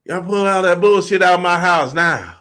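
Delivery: imitated mom's scolding shout; mama going off. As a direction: holler like a fed-up mother. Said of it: "You know, she going off".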